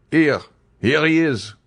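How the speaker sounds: high shouted discovery; calling out. A narrator's reading. Soldier on the landing, calling out high and loud. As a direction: call out from the landing. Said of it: "cried a voice from the landing".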